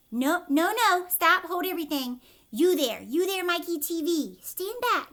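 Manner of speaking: loud, high, urgent stop; alarmed shout. Acted. Wonka warning Mikey off the camera, alarmed shout. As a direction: halt him before he gets hurt. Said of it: "Wonka stops Mikey near camera".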